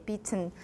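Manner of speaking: bitten with the T released; dictionary pronunciation. Shown as a demonstration. Teacher reads bitten by the IPA, T released. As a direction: say bitten as transcribed, T pronounced. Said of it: "according to the I P A".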